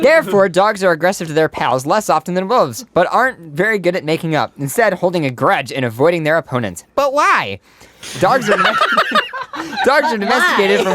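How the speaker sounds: squeaky high helium voice. Real, not acted. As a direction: read it with lungs full of helium. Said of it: "my voice is still a little higher up".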